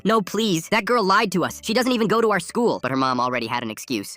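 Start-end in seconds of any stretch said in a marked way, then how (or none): 0.0-2.8 put-on high, urgent protesting kid; yelled plea. A narrator's reading. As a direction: plead in a raised, high voice. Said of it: "out of the car yelling".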